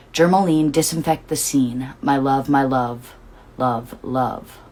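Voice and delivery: slow, rhythmic poem reading; lyric reading. Acted. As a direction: read the lyrics like a poem, savoring each line.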